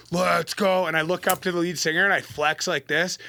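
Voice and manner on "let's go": drawn-out retold hype cry; retold mosh pit rallying cry; hyped call. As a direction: call it out pumped up, without a full shout. Hype shout alone in mosh pit.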